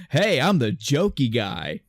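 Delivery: lightly mocking joker; a touch of perky wisecracker; jokey guy. Mimicking the dub's changed hero, lightly jokey. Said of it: "that tone of that character now goes from".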